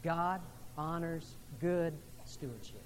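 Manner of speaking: slow unison recitation; slow call-and-response line; said with the congregation. Real, not acted. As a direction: lead the room in saying it together. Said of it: "Would you say that with me?".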